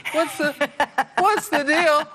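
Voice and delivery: high squeaky lizard voice. Pretend. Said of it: "those little lizards doing push-ups".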